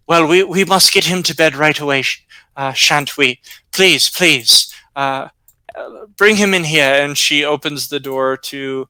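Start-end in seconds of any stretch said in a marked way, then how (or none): 0.1-7.0 lightly voiced, urgent old woman; concerned old woman. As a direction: fuss with mild urgency as an old lady. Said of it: "she covers her mouth and says".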